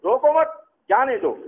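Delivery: "روکو مت" together, then a pause, then "جانے دو" falling; pause after مت. Shown as a demonstration. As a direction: let him go: "روکو مت ... جانے دو". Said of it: "یہ یاد رکھنا".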